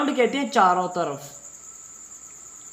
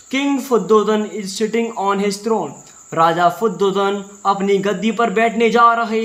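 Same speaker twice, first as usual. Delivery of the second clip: doorkeeper announcing; 3 dB louder, slower than usual. Shown as a demonstration. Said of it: "तो ऐसे ही बोलते थे ना, हाँ, वैसे ही ये बोल रहा है दरबारी".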